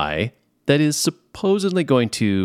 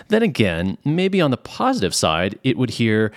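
ordinary talk

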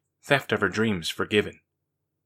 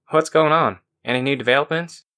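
lifted, louder eager asking; eager question; 5 semitones higher, 4 dB louder than usual. Acted. Daniqua asks the group for news, eager. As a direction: press for the news, wide awake now.

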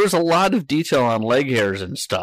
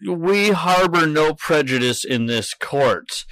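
slow, mock-menacing villain judge; slow theatrical villain menace; 6 semitones higher than usual. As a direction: ham up a villain's slow verdict. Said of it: "with my best villain voice".

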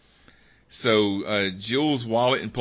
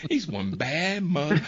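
laughing Shaft quote; 7 semitones higher than usual. Acted.

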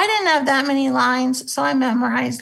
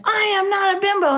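quoting Jessica Hahn; 8 semitones higher, faster than usual. Retold or imitated. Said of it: "Jessica Hahn said".

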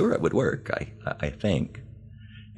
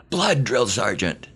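high, slow mock chant of recruits; recruits screaming back; 6 semitones higher than usual. Recruits answering the drill sergeant, slow high mock yell. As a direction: belt it back like a recruit on parade. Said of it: "we screamed back".

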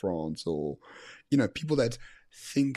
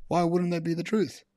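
higher and louder, mock-naive question; sarcastic mock innocence; 7 semitones higher, 4 dB louder than usual. Teasing cohost Byron about TV fantasy, sarcastic mock-innocent voice. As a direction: play dumb with heavy sarcasm. Mocking the show's happy ending.

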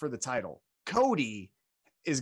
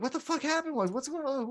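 confused Roman; 10 semitones higher than usual. Retold or imitated. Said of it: "And he's like".

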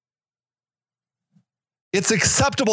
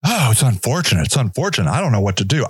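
low mocking whine of a hand-wringer; whiny excuse maker; 9 semitones lower, faster than usual. Mocking people who shrug off homelessness, in a whiny voice. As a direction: mimic a helpless excuse, dragging it out.

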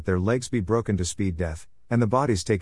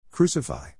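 Crucify cried higher and a touch stronger; frenzied shout; 4 semitones higher than usual. A narrator's reading. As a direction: push the second Crucify up like a crowd. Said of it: "they shouted in a frenzy".

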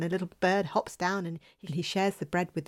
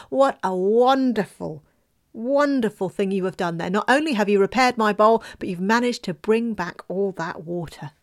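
mother praising her son loudly; proud mother; 5 dB louder than usual. Acted.

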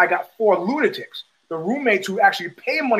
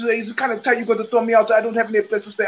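put-on French accent; 2 semitones higher, faster than usual. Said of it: "It's my French accent".

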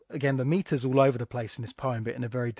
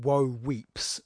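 WOE and WEEPS both weighted, slowly; two equal stresses. Shown as a demonstration. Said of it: "That's two stressed syllables".

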